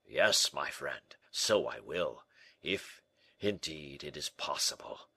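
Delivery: slow, low and downcast; heavy-hearted, reluctant reply; melancholy Porthos. Acted. Porthos answers in deep melancholy.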